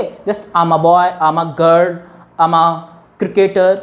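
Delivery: "I'm" merged, slow and clear; contracted I'm. Shown as a demonstration. Teacher drills short form examples slowly. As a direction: blend I'm into one beat each time. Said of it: "बोलते हैं आम".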